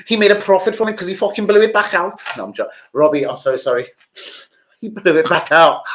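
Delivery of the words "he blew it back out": laughing. Real, not acted. Laughing at his own joke.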